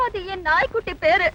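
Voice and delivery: acted tearful explanation; sniffling over a lost pet. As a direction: talk through little sobs. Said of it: "ஆ, அழாதீங்க".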